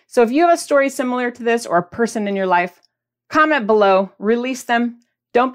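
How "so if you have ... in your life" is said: normal talking voice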